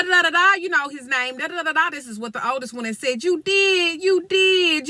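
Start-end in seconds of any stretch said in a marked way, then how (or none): 3.2-4.9 put-on tearful little girl. Oldest girl crying accusation.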